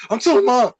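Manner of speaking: high mock tattletale voice; the little sister whining she'll tell; tattling sister. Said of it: "She was like".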